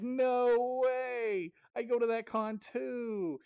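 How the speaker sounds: high, loud delighted squeal; thrilled to find a fellow fan; excited. Retold or imitated. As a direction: other player thrilled about the con, high mock squeal. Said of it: "they're like".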